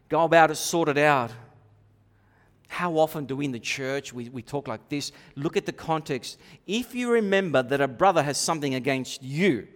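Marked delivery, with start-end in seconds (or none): none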